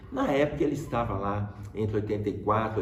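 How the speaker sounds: ordinary talk, nothing marked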